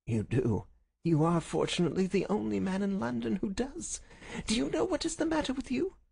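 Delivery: rising high, smug needling; sniggering gloat. Acted. Visitor sneers at the sick man, gloating. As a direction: needle him, climbing in pitch. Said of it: "Our visitor sniggered".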